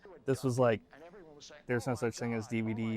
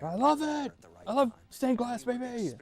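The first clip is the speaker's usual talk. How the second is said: high, gushing delighted voice; gushing doctor; 11 semitones higher than usual. Retold or imitated. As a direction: gush about stained glass. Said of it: "He's like".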